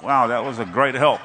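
dry, half-laughing sarcasm; sarcastic thanks. Retold or imitated. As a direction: thank her with a wry laugh. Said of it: "looking at her like".

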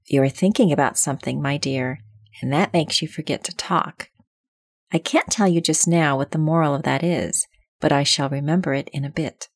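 put-on lofty old duchess lecturing; imperious plummy grande dame. Duchess voiced in story.

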